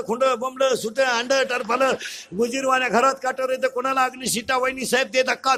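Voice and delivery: rhythmic monotone patter without a break; rattled-off list. Acted. Preacher listing household clutter as worldly attachments, chanted patter. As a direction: reel off item after item on one note.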